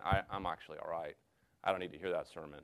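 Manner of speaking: low, hushed self-satisfied aside; quiet smug thought. Retold or imitated. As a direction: murmur it as a private smug thought. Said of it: "you wouldn't say this out loud".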